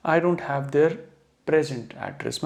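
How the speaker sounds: weight on PREZ in present; careful read with present as PREZ-unt; adjective stress. Shown as a demonstration. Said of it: "तो ये बोलेंगे हम यहाँ पे present".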